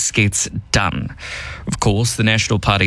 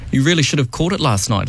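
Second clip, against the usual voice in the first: dry sarcastic tone; 3 semitones higher than usual. Acted. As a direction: say it with mock sincerity.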